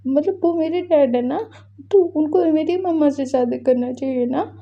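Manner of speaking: put-on high, pleading child's voice near tears; crying child. Little boy pleading with his father, voice near tears. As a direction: beg through tears like a hurt little boy. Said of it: "बोल के वो रो रहा था।".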